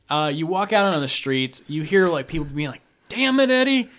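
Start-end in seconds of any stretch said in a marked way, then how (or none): 3.1-3.9 high, loud exasperated call; annoyed townsfolk yell. Acted. Townspeople yelling at the town drunk, exasperated shout. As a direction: holler it down the street at a troublemaker.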